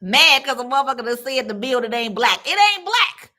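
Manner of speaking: exasperated rant. Retold or imitated. Scoffing at the moms' anger, high incredulous outburst. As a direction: spike up high on black in disbelief.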